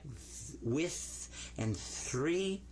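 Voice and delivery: light TH in with and three, stretched out; lightweight TH. Shown as a demonstration. Teacher gives pupils examples, lightweight TH in with and three.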